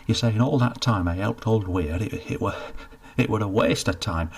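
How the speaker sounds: mild hurt anger; angry and hurt. Acted. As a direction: close to tears with resentment. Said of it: "Cedric sounded angry, hurt".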